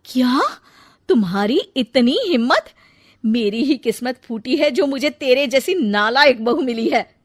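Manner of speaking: loud, indignant outburst; outraged mother-in-law at her cheeky bride. Acted. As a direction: explode at the insolent bride.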